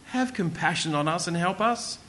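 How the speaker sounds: begging. Acted. Shaken father begs Jesus for compassion, lightly pleading. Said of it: "rushes over to Jesus and begs".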